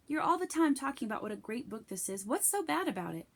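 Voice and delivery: girl asking about banned book, lightly voiced. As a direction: ask like a nosy classmate. Rebecca speaking, narrator voicing girl.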